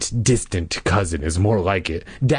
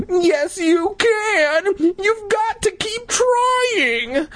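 frantic urging; much slower than usual. Acted. Boy urges trapped sister on.

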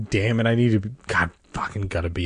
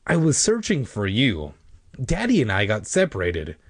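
put-on higher-pitched, animated girl character; lightly voiced indignant cousin; cousin Sari, exasperated; 4 semitones higher than usual. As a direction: explain it with lightly acted exasperation. Voices cousin Sari explaining herself.

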